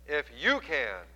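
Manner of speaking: slow, weary "If you can." with "you" leaned on; tired echo of the father's doubt; exasperated. Acted. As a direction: let the exasperation show, slowly. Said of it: "there is exasperation in his voice".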